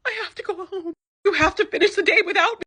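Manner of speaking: mock Julia. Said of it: "in true Julia fashion".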